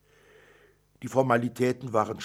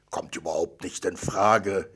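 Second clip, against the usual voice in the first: a curt, firm no from a father; gruff refusal; 3 semitones lower than usual. Acted. Father curtly refusing his daughter's wish for a dog, gruff. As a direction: shut the daughter's begging down briskly. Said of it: "entgegnete ich schroff".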